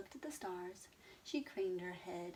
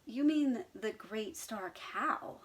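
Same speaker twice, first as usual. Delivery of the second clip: slow, louder indignant cow; 3 semitones higher, 5 dB louder, slower than usual. Acted. Abigail correcting Mister Brown, indignant. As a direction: correct him huffily. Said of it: "said Abigail indignantly".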